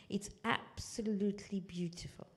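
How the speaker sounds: breathy near-whisper of wonder; hushed awe. Real, not acted. Teacher marvels at the verse to students, in a hushed whisper.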